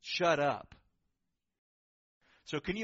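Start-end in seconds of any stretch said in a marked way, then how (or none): 0.0-0.8 loud, blunt rebuke; stern command. Acted. Pastor gives the blunt translation in church, stern command. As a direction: fire it out firmly and loudly. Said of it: "this is such a stern word".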